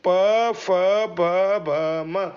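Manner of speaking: प फ ब भ म with a firm lip burst; lip sounds demo. Shown as a demonstration. Teacher demonstrating lip consonants for students. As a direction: pop each lip consonant clearly. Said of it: "बोल के देखेंगे".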